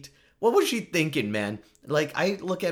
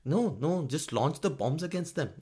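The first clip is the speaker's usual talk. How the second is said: mock angry drunk, higher-pitched, Finnish accent; 4 semitones higher than usual. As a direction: play at being an irritated drunk leader. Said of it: "one of those angry drunk people".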